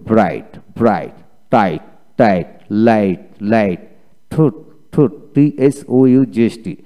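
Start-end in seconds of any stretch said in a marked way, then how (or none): 0.1-1.1 "ব্রাইট" as brait, no g sound; silent GH. Shown as a demonstration. Teacher gives a like example for the rule, GH silent in "ব্রাইট". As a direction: drill "ব্রাইট" with the GH left silent. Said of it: "একইভাবে".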